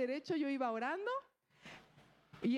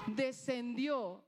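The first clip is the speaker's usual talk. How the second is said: descendió stretched out, very slow; very slow emphasis; 2 semitones lower, much slower than usual. Shown as a demonstration. Preacher repeating the word, very slowly. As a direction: let descendió sink in slowly. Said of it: "Descendió con ellos".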